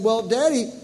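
put-on a touch of a slow childish question; lightly voiced small boy; little boy confused. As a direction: ask it innocently like a confused kid. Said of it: "and he said".

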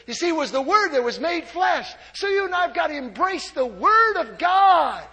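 loud, driving exhortation; exhorting the church at full volume; preaching shout. Real, not acted. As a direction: press the point hard on the crowd.

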